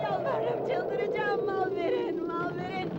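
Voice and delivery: frantic pleading. Acted. Locked in, screaming to get out.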